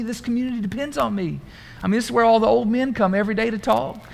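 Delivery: a mock storekeeper making excuses; imitating businessman. Businessman refusing the party to keep his store open, mock earnest. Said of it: "the businessman saying".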